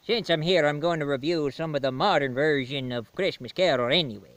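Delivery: put-on jolly Santa ho-ho in a Swedish accent. Santa greets the reviewer, jolly Swedish accent. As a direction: Santa booming with a Swedish lilt. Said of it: "what's with the Swedish accent?".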